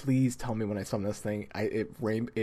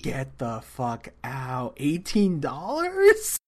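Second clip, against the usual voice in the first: shocked disbelief; 3 semitones higher, much slower than usual. Real, not acted. Shocked at the price.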